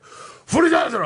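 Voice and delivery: high-pitched imitation Russian rant; drawn-out mock tirade; yelling in mock Russian. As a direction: yell gibberish Russian at a cop. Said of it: "yelling at the cop".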